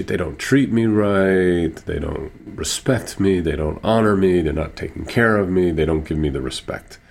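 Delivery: mild retold indignation, words stretched at first; imitating someone hurt and indignant; retold aggrieved complaint. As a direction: list the grievances like an upset patient, lightly acted. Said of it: "She was so furious with them".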